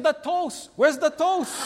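high, loud mock outburst; triumphant outburst. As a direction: punch the punchline like a gotcha. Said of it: "He said".

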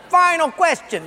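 repeated through a laugh; preacher repeating the line while laughing. Acted. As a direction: say it again, cracking up.

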